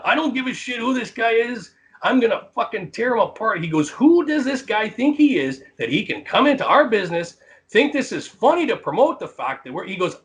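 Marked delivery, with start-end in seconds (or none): 0.0-3.6 worked-up mock yell at a distance; imitating angry yelling. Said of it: "and he's yelling". 3.9-9.8 higher-pitched mimicked outrage; mock tirade, pitched up; retold angry rant. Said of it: "he's screaming about it".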